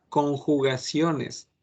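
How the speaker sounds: conjugaciones drawn out slowly; slow heading. Shown as a demonstration. Teacher slowly announces the next topic. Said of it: "slow topic heading".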